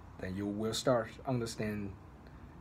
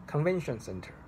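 CONVENTION center, first word raised in pitch; higher-pitched stress; 6 semitones higher than usual. Shown as a demonstration. Teacher showing that stress raises pitch, high "Convention" in "Convention center". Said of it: "the pitch actually in this word is also higher".

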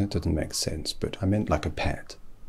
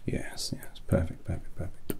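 murmur; 7 dB quieter than usual. Acted. Hatter approves the hat.

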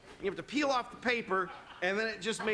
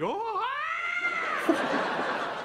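higher, jolted gasp; mock startled manager; 3 dB louder than usual. Manager startled on hearing the guest is white, mock gasp. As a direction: act caught off guard.

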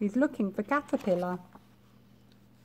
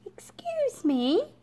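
high, slow, whispered politeness; shy high whisper; timid whisper; 12 semitones higher, slower than usual. Acted. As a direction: ask in a tiny whisper. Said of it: "she said".

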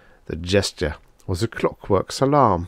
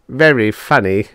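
sneering; 4 semitones higher, 6 dB louder than usual. Acted. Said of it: "sneered Drummond".

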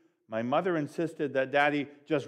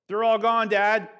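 put-on much higher, louder child's shout; thrilled kid yelling; excited yell; 8 semitones higher, 10 dB louder than usual. A narrator's reading. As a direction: call out down the street to dad. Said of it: "I yelled".

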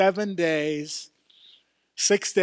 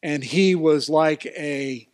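loud, rising preacher voice; fervent pulpit delivery; full-force preaching; 3 dB louder than usual. Real, not acted. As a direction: preach it, building in volume.

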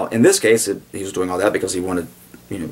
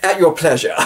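posh English, said through a laugh; graciously unbothered, almost amused; genteel British officer; 8 semitones higher than usual. Retold or imitated. Uxbridge to the doctor, posh and amused. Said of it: "he goes".

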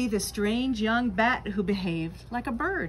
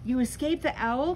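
excited cry; 3 semitones higher than usual. Acted. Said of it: "cried Stella Luna".

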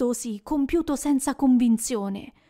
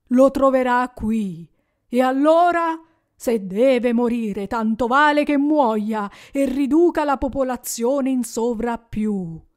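lightly voiced spirit, cold and louder; stern ghost; 5 dB louder than usual. Ghost quotes Scrooge's cruel words back, stern and cold. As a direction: throw his own words back at him.

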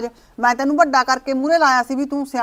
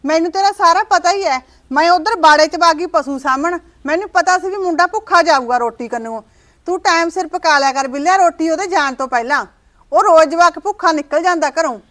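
scolding; 3 semitones higher than usual. Acted. Mother-in-law scolding daughter-in-law.

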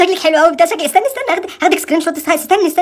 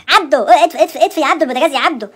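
raised voice calling for Abdo; calling out to husband; 3 semitones higher than usual. Acted. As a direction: call across the flat to turn off the stove. Calling husband to turn off stove.

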